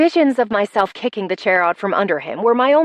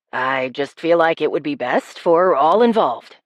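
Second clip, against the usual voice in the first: lowered mock-considerate voice; teasing male character; 5 semitones lower than usual. A narrator's reading. He tosses her underwear, lower teasing male voice. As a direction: feign concern in a lower voice.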